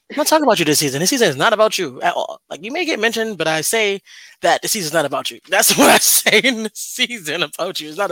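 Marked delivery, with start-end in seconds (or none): 0.1-5.4 louder, firm retort; mock telling off. Telling the hater partner the season is not about him, loud and firm. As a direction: set him straight.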